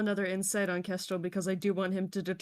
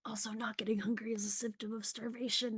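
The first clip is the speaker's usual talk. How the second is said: whispered; 3 semitones higher than usual. Shown as a demonstration. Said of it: "repeated plainly".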